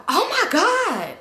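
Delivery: high, loud, drawn-out OH MY GOD; loud shocked exclamation. Retold or imitated. Friend walks up and catches them kissing, loud shock. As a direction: blurt it out in exaggerated shock. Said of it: "so loud".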